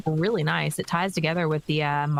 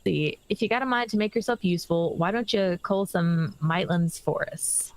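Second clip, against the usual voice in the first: lightly voiced gruff stable keeper; a hint of a rural English chocobo trainer; rustic NPC voice. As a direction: read it like a folksy farmhand. NPC quest line reread.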